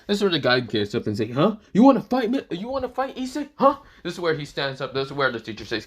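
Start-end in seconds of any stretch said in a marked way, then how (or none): 1.3-3.8 high, loud sneering challenge; taunting delinquent voice; thug challenge. Acted. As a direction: pick a fight like a punk. Thug picking a fight in class.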